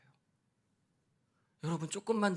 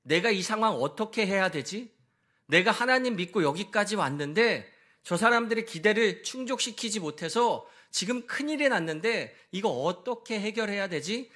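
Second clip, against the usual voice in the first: higher, louder worried self-questioning; anxious fretting; 4 semitones higher, 4 dB louder than usual. Retold or imitated. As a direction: fret aloud, at a loss. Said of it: "하나님께 부르짖습니다".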